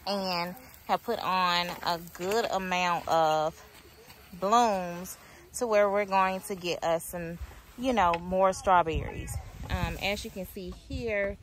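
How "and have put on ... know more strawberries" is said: louder to carry over wind; shouting over wind. Real, not acted. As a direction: raise your voice over the gusts. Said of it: "I'm hoping that you can hear me over the wind".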